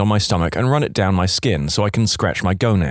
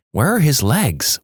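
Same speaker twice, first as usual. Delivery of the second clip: panicked muttering; 4 semitones higher, slower than usual. Retold or imitated. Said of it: "repeatedly muttering".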